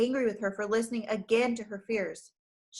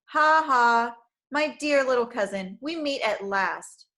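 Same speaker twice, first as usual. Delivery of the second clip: sneering villain; 2 semitones higher, 6 dB louder than usual. Acted. Villain Craven Fear appears.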